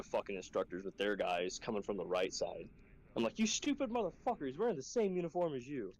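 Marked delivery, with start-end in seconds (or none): 3.4-5.9 high-pitched mock outrage; retold exasperated scolding. Instructor correcting trainees about matching uniforms, mock exasperation. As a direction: scold them in pitched-up disbelief.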